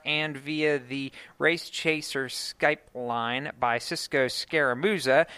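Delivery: usual speaking voice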